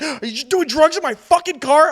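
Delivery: imitated indignant friend, pitched high; mad at me. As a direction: act out his scandalized disbelief. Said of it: "Like, mad at me".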